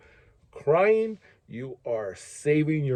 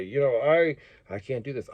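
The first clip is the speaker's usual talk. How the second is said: hurting plea. Acted. Hurting person coming to a friend for help, subdued and sincere. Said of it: "if you're hurting and you come to me".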